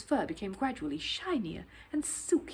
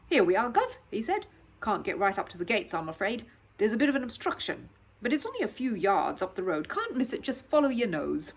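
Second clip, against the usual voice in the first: louder, chatty London cabbie; Cockney cabbie; 4 dB louder than usual. Acted. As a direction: play a cheerful cab driver. Cab driver talking to Paddington.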